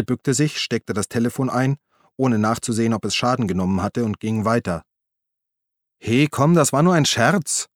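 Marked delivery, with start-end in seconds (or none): 6.0-7.7 Uli's voice, higher and a little louder; Uli, pleading. Acted. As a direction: call after him, placating. Uli calls after Walde. (Uli ruft beschwichtigend hinterher, höhere Stimme)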